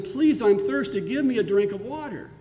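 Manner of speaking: pleading cry. Retold or imitated. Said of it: "he's crying out to Lazarus".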